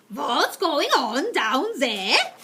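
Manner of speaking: slow, loud demanding shout. Acted. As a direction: shout down from the platform. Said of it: "shouted the Grand High Witch".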